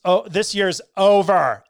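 "over" drawn out as "ovah", no R; dropped R on over. Shown as a demonstration. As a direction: stretch "over" slowly into "ovah". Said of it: "O V A H".

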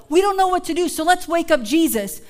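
anxious cry to wake Jesus; pleading disciples. Retold or imitated. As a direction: beg a sleeping teacher. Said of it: "This is how they felt".

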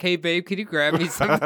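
quick, light mock wife request; imitating the wife. Wife asks husband the second he sits, mock sweet. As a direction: ask sweetly just as he sits. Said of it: "I was like".

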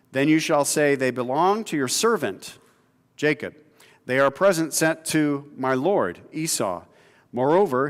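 measured reading of a Bible passage; scripture reading. Acted. Preacher reading Genesis to the congregation, steady. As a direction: read the passage aloud to the congregation.

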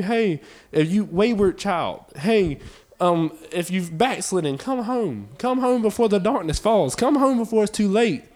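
loud pleading call, come home; Jesus calling home. Acted. Jesus calling the wayward child home, loud pleading. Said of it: "He's calling you".

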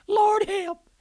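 desperate cry. Retold or imitated. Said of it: "he said".

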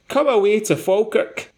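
high, hammed-up fake Scottish accent; ropey Scottish accent. Quoting the chef's TikTok sign-off in ropey Scottish accent. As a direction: ham up a bad Scottish brogue. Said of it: "in this really ropey, Scottish accent".

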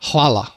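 hvala, stressed on the first syllable, HAH-lah; the Croatian hvala said slowly and clearly; modelling hvala; saying hvala. Shown as a demonstration. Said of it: "a lot of people struggle with that word".

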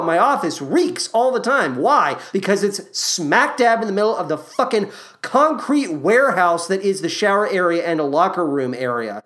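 usual speaking voice

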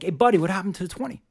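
calling out. Retold or imitated. Bartender calls after the guest heading out the door, loud and quick. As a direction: catch him right before the door.

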